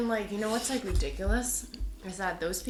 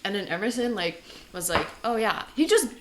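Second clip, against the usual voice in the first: excited; 5 semitones higher, 5 dB louder than usual. Real, not acted. Excited honeycomb story.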